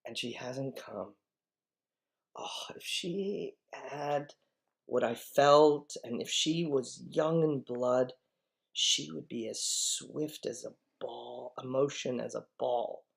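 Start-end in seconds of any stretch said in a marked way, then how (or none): 2.4-9.1 longing Juliet. Acted. Teacher voicing Juliet's longing.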